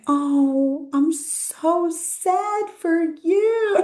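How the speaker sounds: high, very slow sing-song mock sympathy; drawn-out, sweetly insincere comfort; fake sympathy. Telling the surrogate she's sorry the cat ran away, sing-song mock sympathy. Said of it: "I'm like".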